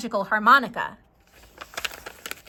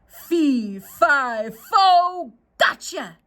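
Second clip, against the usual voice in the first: lightly voiced giant, louder on fo; giant's gotcha; 4 dB louder, much slower than usual. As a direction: pounce on gotcha. Giant catches Jackie.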